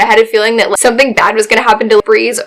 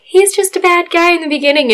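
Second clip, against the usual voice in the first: mocking others; 8 semitones higher than usual. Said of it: "everybody was like".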